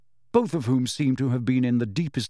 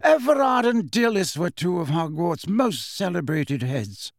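higher-pitched start, falling away at the end; lightly voiced headmaster, explaining; 5 semitones higher than usual. Dumbledore explains who the portraits are, lightly voiced. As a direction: explain with measured authority.

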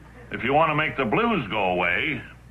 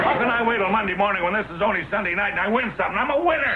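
excited; 8 semitones higher, faster than usual. Acted. Giddy after winning a prize.

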